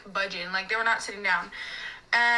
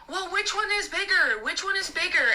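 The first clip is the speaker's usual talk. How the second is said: imitated screaming customer; 7 semitones higher than usual. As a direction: demand it in a raised, high pitch. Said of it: "like, screaming in the restaurant".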